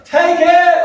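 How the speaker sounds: sharp high hammed-up yell; mock shout. Imitating the preacher shouting at his crowd. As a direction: fling the command out at the crowd. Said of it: "He goes".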